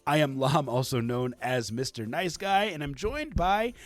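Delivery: hyped host introduction; booming kids show opener. Acted. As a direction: announce the co-host like a wrestler.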